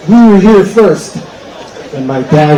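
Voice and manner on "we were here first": slow, louder indignant protest; indignant line-cutter. Retold or imitated. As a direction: insist on your place in line. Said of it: "And he says".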